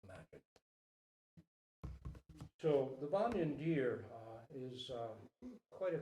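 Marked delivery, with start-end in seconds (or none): 0.0-0.4 soft, lower, hushed; quietly. A narrator's reading. Doe to her son, soft and quiet. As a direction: let it fall to a near hush. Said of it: "said the doe quietly".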